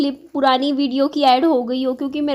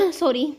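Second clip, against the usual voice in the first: throat clearing; 4 dB quieter, slower than usual. Real, not acted. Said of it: "मेरा गला ख़राब है थोड़ा सा".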